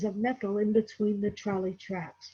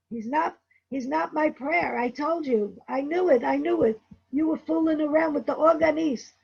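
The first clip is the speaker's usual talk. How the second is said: accusing outburst; 5 semitones higher, 3 dB louder than usual. Retold or imitated. Albert accusing his wife.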